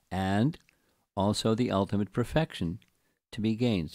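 deliberate scripture commentary reading; slow reading aloud. Shown as a demonstration. Teacher reading the purport to patient listeners, deliberate reading. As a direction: read it out, pausing after each phrase. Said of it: "I'll read it slowly".

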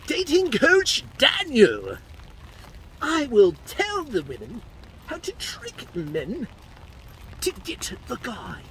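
high, slow, put-on Australian accent; phony dating coach with a drawn-out Australian accent; Daniel, Australian accent. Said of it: "That was an Australian accent".

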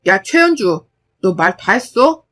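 father cutting off daughter; stern warning. Acted. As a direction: warn her to stop.

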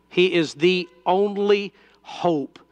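ordinary talk, nothing marked

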